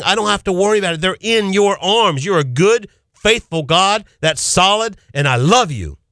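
grateful prayer. Acted. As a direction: pour out earnest thanks as if praying aloud. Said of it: "Are you grateful and thankful?".

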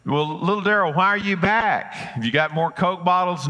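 put-on an old man brightening up at a returning kid; lightly voiced storekeeper, mildly surprised to see the boy back.

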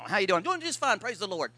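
mock a churchgoer growling to himself; low muttered complaint, then a fake-polite greeting; grumbling under breath. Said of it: "Walk around growling".

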